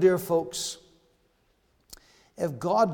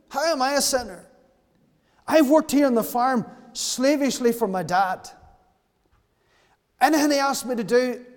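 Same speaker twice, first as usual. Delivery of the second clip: put-on older brother insisting he is blameless, louder and rising; indignant protest; 3 semitones higher, 5 dB louder than usual. Older brother protests to his father, indignantly louder. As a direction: plead your own obedience with growing indignation.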